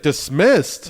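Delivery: retold indignant comeback; mock indignant disbelief. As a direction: throw "Dismissed?" back as an offended question. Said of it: "He's like, "Dismissed? What do you mean I'm dismissed?".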